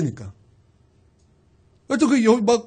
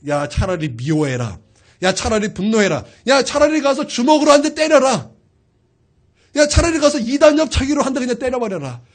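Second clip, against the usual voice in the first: sinful instinct urging. Retold or imitated. Preacher voicing his sinful instinct against forgiving, building insistence. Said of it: "내 본질상 죄의 본능이".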